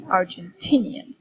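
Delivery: Argentinian with the stress on "tin"; Argentinian, leaning on the syllable "tin"; stress on third syllable. Shown as a demonstration. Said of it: "the apostrophe is before D".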